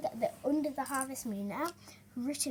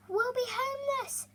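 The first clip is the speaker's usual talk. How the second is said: mock sob; 13 semitones higher than usual. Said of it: "sobbed Harvest Mouse".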